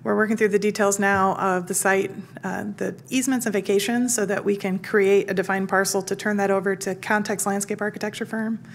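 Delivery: hoarse voice, losing it. Real, not acted. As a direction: talk through a failing, hoarse voice. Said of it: "Sorry, I'm losing my voice".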